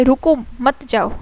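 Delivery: slight break after रुको, then मत जाओ together; comma after रुको. Shown as a demonstration. Teacher showing how a comma changes meaning, comma after रुको. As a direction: set रुको apart from मत जाओ. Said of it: "हमारे comma में ही रुक".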